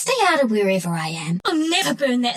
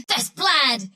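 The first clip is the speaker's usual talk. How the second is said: exclamation just a little raised in pitch; milder triumph; 3 semitones higher than usual. Acted. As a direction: announce the kill with contained excitement. Alternate take of first kill.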